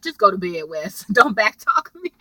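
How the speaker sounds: put-on a light touch of Rose's accent, half laughing; mock Rose's accent, scolding lightly. Rose telling Wes to go to bed, in her accent. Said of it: "I love her little accent".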